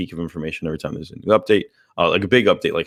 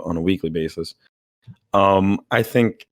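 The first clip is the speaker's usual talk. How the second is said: strained, fading voice from losing it. Real, not acted. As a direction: talk through a tired, worn-out voice. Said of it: "sorry, I'm losing my voice".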